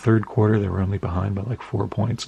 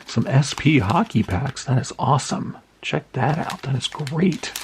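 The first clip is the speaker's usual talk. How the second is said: pleased, higher-pitched excitement; excited; 5 semitones higher than usual. Real, not acted. Collector unboxing hockey packs from a friend, excited. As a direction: react with real delight as you discover it. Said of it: "Man, I'm very excited about that".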